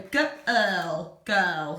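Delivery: put-on girl said slowly with a long er vowel; stretching girl. Shown as a demonstration. Teacher stretches girl to find its sounds. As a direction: draw out the er in girl. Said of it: "stretching out girl".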